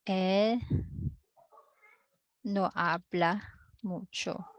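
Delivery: halting, with a long pause after El; slow dictation. Shown as a demonstration. Teacher writing the Spanish answer for the class, slow dictation. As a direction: say it in separate pieces, as if writing it out.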